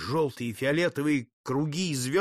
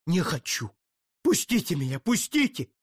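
desperate plea; 3 semitones higher than usual. Acted. Count struggles, begs release.

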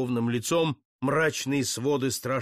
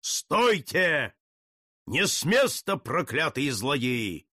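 thunderous command; slower than usual. Acted. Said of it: "громовой голос покрыл голоса".

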